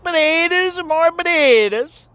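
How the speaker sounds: sing-song announcer. Acted. Announcing potato harvest, sing-song.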